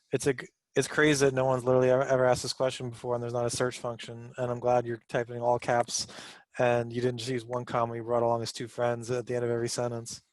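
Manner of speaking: fast, mocking forum reply; sarcastic. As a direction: sneer it out quickly. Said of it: "I'm just making fun of the way he posted".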